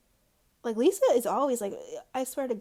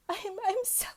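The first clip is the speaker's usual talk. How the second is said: high, slow, whiny mock sob voice; mock whiny sadness; 7 semitones higher, slower than usual. Mocking Lisa whining sadly to John on the phone. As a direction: drag out sad like a pouting drama queen.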